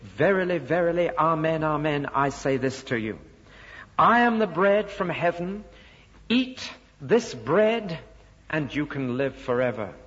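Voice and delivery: solemn, insistent retelling of a bold claim; emphatic claim. Retold or imitated. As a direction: proclaim it with weight, drawing out "Eat this bread". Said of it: "repeats his claims emphatically".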